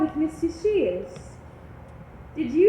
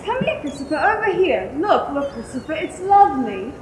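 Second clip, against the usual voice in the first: calling out; 6 dB louder than usual. Acted. Mother calls son into the sea.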